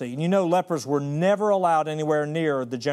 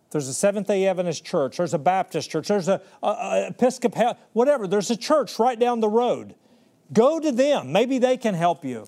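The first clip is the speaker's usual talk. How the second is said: rising, louder, offhand send-off; dismissive brush-off; 4 semitones higher, 4 dB louder than usual. Acted. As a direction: wave him off to the churches, getting higher. Jesus brushing off the leper.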